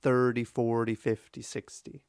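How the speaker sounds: "thirty, forty, fifty, sixty" run together long-short; lilting, falling chain from "thirty" to "sixty"; swinging tens rhythm. Shown as a demonstration. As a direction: stress the first syllable of "thirty", "forty", "fifty", "sixty", light "-ty". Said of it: "Compare that with counting by tens".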